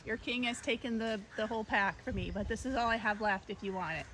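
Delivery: soft apologetic coaxing; offering the apple tenderly; gentle. Real, not acted. Telling the monkey the king took the bananas, soft.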